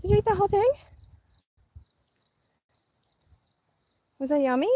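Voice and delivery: high sing-song voice for a little one. Real, not acted. Mom cooing to baby Abby about her snack, high baby talk.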